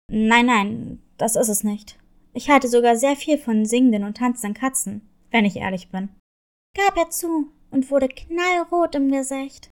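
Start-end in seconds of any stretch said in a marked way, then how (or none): 0.1-6.1 low wolf voice, quicker and sinking lower; a gruff wolf embarrassedly confessing; flustered wolf. Acted. Embarrassed wolf admits liking.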